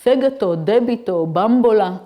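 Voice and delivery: fegato, debito, bambola with the stress on the first syllable; Italian words, antepenultimate stress. Shown as a demonstration. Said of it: "third and fourth line is".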